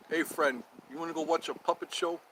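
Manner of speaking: understated tough-guy invitation; light tough voice. Pretend. Asking a friend to a puppet show, lightly tough. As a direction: say it tough but softly. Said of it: "sounds tough if you say it tough".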